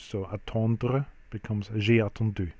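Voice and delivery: "attendu" ending on a rounded French U, said slowly; teacher modelling the French U in "attendu"; French U demo. Shown as a demonstration. Teacher to class, slow model pronunciation. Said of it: "the U is pronounced as an U in French".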